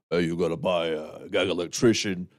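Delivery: lightly voiced gravelly friend; a hint of a tough gravelly voice; Jeff impression. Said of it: "Is, is that your Jeff impression".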